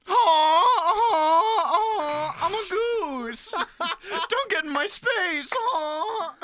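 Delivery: very high, loud honking goose voice; goose impression. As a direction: squawk it out like an angry goose. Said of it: "do your best impression of a goose".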